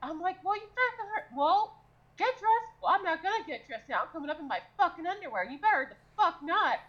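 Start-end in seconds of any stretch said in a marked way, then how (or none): 0.4-2.7 high-pitched bickering mock yell; acted yelling. Cook ordering housemate to get dressed, acted yelling. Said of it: "yelling at each other". 2.8-5.4 high, defiant mock yell; acted yelling. Housemate refusing to dress for breakfast, acted yelling. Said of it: "yelling at each other". 5.4-6.8 high-pitched heated bickering; acted yelling. Housemates squabbling over underwear at breakfast, acted yelling. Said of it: "yelling at each other".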